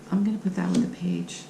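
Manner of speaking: whispered aside to herself. Real, not acted. Reader re-places the card in a whispered aside. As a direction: drop to a whisper while placing the card.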